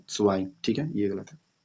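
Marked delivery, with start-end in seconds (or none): 0.1-0.5 "स्वाई" ending in an eye sound; German zwei said as "स्वाई"; correct "स्वाई" pronunciation. Shown as a demonstration. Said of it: "सही उच्चारण क्या है".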